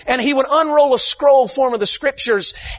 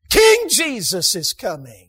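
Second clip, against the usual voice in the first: slow proclamation; 2 semitones lower, slower than usual. Shown as a demonstration. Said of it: "Can I literally do what boao means".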